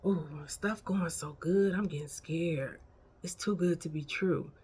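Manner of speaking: soft, hushed mock worry; worried doubter. A doubter fretting over good luck, mock worried. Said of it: "somebody say stuff like this".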